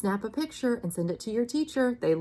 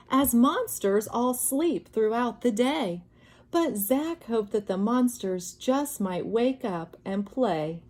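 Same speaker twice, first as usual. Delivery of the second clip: put-on reading to children. A narrator's reading. Teacher finishing the bedtime story for children, gentle. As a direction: let the story settle to sleep.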